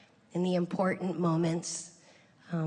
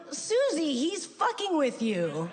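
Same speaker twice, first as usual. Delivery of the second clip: knowing aside; 7 semitones higher, slower than usual. Retold or imitated. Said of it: "And I go".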